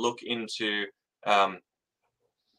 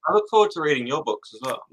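louder and clearer for the listener; louder repeat; 4 semitones higher, 4 dB louder than usual. Real, not acted. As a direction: repeat it louder so it's heard. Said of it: "Say it again?".

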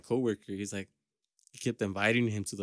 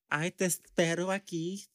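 higher, sing-song sassy lilt; slithering sassy voice; 6 semitones higher than usual. Retold or imitated. Mimicking the coworker's sassy slithering talk. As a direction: slide through it with sass. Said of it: "slithering succotash type of voice".

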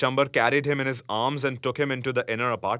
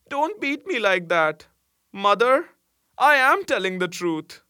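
high, insistent protest; agitated crying out; 10 semitones higher, 5 dB louder than usual. A narrator's reading. Delirious boy begs his mother to believe him, agitated. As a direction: plead loudly in a much higher voice. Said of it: "his voice became excited".

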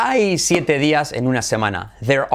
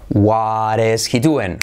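slow model question; 4 semitones lower, slower than usual. Shown as a demonstration. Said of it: "Entonación".

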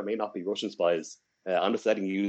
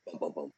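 dramatic bum bum bum; 4 semitones lower, 10 dB quieter than usual. Pretend. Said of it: "Dramatic pause".

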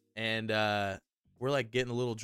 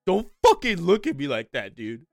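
higher, louder mock snap of a crying buddy; hammed-up friend caught crying, higher and louder; tearful friend snapping; 8 semitones higher, 14 dB louder than usual. He's like.

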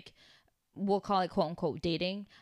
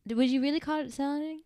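animated challenge; 6 semitones higher, 5 dB louder than usual. Real, not acted. Challenges friend's regret.

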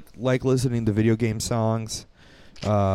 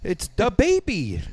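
playful reveal; 9 semitones higher, slower than usual. Pretend. Joking repeat.

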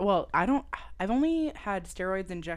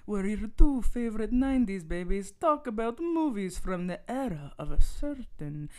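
mad scientist; 4 dB louder than usual. Acted. Spooky Halloween episode intro.

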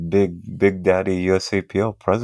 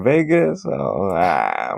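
mock doubtful; much slower than usual. Speaker recalling his reaction to Vegas, mock doubtful.

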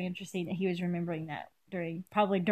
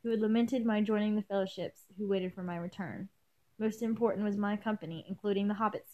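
measured first-person story reading; story narration; 5 dB quieter than usual. A narrator's reading. Reader telling of companions awaiting return, story narration. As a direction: read the tale aloud evenly. Reads fan fiction aloud.

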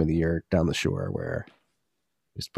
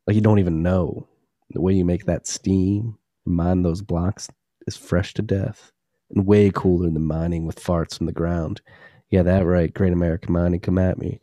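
sexy voice. Pretend. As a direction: purr it like a love letter. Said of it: "I had to say this in a sexy voice".

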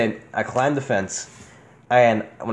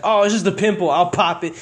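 lightly voiced dismissive grandma, higher at first; 6 semitones higher than usual. Grandma waving away a sore knee, lightly imitated dismissiveness. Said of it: "so my grandma, being the fucking Hispanic she is".

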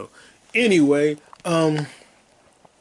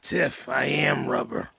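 quiet slow repeat; 6 dB quieter, slower than usual. Retold or imitated. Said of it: "You're like".

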